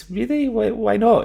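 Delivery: play-acted, very high feigned concern, smile held back. Retelling own reply to someone who won't go, suppressing a smile. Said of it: "trying to repress the smile in my voice".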